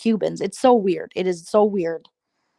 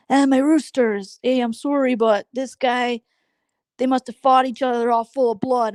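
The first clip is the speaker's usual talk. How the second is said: imitating Zeus Nation; 5 semitones higher than usual. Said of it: "the way he talks".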